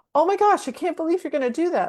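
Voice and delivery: lively, animated, very high-pitched outburst. Explaining stress responses, a speaker demonstrates a changed tone: animated, higher pitched. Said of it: "animated and um, higher pitched sometimes".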